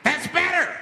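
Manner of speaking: high, loud creepy approval; mock menacing approval. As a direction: purr it like a creep pleased with obedience. Flasher approving silence.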